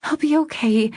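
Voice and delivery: high, strained reassurance; attempted reassurance. A narrator's reading. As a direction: try to reassure while upset. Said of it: "attempting to reassure him".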